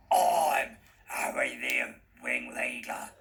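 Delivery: eerie whisper of the villain. A narrator's reading. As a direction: whisper his name to unsettle her. Villain reveals himself.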